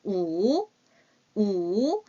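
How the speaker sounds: 우 drawn out slowly as Mandarin wǔ; model pronunciation. Shown as a demonstration. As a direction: say 우 slowly, not 오. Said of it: "우라고 하셔야 돼요".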